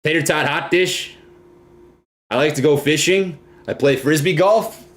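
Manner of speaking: tentative attempt at Minnesota vowels; Minnesota accent. Shown as a demonstration. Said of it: "is that the accent for you?".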